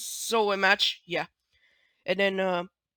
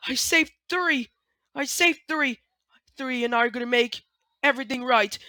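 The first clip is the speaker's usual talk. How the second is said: higher, pleading and insistent, repeating I saved three; a character defending herself, near tears; One insists she saved Three, pleading; upset One pleading; 4 semitones higher than usual. Acted. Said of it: "Okay, then one says".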